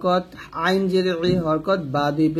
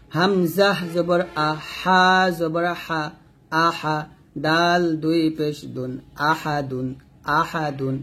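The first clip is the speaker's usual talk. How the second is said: measured recitation, long-held letter names; slow, even Qaida chant for learners to follow; Quran spelling drill; slower than usual. Shown as a demonstration. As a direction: spell it out rhythmically, syllable by syllable.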